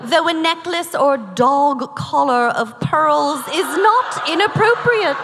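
prim mid-Atlantic etiquette reading; affected mid-Atlantic recitation; mid-Atlantic accent. Acted. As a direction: read it like a quote in a put-on mid-Atlantic accent. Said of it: "I think it's called medicated mid-Atlantic".

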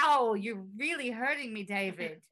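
put-on lightly British-accented woman's voice; impression of a singer. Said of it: "That was my impression of a singer".

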